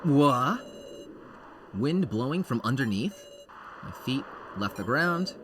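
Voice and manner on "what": sudden loud startled cry; startled whoa. Acted. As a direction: yelp as the floor drops. Falling through the floor.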